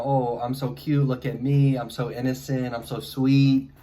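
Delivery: exaggerated sweet innocent act; mock cutesy girl. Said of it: "trying to be Japanese type".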